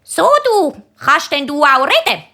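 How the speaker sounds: woman sweetly quizzing a parrot in the pet shop; talking to a parrot. Acted. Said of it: "bleibt sie stehen und sagt".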